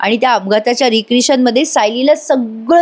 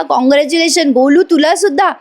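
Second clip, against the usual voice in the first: higher-pitched, lightly acted congratulations; mild acted excitement; 5 semitones higher than usual. Chaitanya congratulating baby after the job news, mildly excited. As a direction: act out cheering good news, pitched up.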